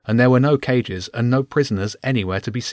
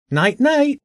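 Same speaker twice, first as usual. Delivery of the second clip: mocking singsong; 3 dB louder than usual. A narrator's reading. Guard taunts through locked door.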